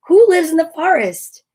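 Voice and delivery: lively, rising read-aloud question; excited question. Acted. Reading to kids, an eager question. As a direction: ask it like you're peeking into the woods.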